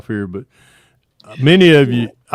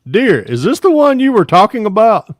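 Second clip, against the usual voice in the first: high, louder hammed-up question; mock innocent husband; 11 semitones higher, 7 dB louder than usual. Comedian retelling holding up the toy to his bride, hammed-up high voice. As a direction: ask it like an innocent new husband. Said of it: "I looked out at my new wife and I said".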